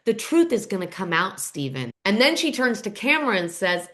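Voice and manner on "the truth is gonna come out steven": mildly ominous, name dropped low at the end; hint at a secret, lightly acted; cryptic. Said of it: "she very cryptically says".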